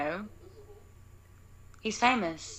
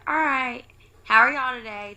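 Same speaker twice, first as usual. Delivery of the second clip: higher-pitched cheery cashier; smiling service voice; 6 semitones higher, 6 dB louder than usual. Retold or imitated. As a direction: greet customers with an audible smile. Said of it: "I'm smiling".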